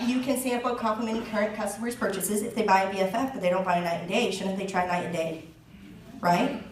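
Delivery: ordinary talk, nothing marked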